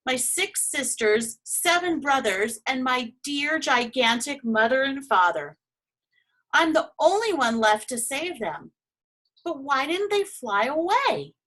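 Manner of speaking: high, anxious pleading; frantic about his family; a young dragon near panic; distressed. Acted.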